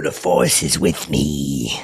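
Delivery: low, slow Vader rumble; Darth Vader. Retold or imitated. Pointing an umbrella at Harrison Ford, low slow Vader voice. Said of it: "I did like that, like Darth".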